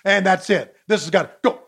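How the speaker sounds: ordinary talk, nothing marked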